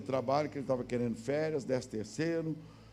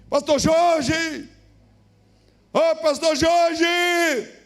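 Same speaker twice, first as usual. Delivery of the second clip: drawn-out shout, much higher and louder; late-night caller shouting the pastor's name from the doorstep; calling out; 12 semitones higher, 11 dB louder, much slower than usual. Retold or imitated. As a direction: yell his name slowly through the door. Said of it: "me gritando na porta de casa".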